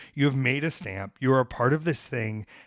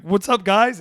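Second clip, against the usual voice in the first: mock cheery greeting; 8 semitones higher, 7 dB louder, slower than usual. Greeting the costumed crowd.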